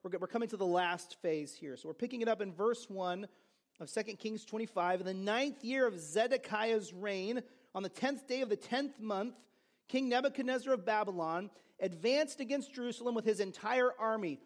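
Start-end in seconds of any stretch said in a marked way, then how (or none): 5.0-14.4 scripture reading. Acted. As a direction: read the passage aloud with weight. Reads scripture aloud.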